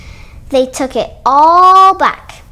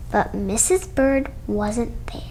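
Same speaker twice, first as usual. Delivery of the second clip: hushed whisper, softer; 4 semitones lower, 6 dB quieter than usual. A narrator's reading. Storyteller hushing the children at the empty chimney, whispered. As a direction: whisper it like a secret.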